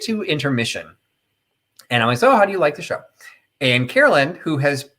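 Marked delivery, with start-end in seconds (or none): 2.2-3.0 high, sing-song eager question; bright cheery question. Retold or imitated. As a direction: ask brightly, fishing for praise. Asking the exchange student at intermission.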